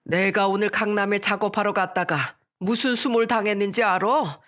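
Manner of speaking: mildly angry father; a touch of indignation at being humiliated. Acted. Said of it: "화난 목소리로 말씀하셨어요". (약간 화난 아버지의 말투)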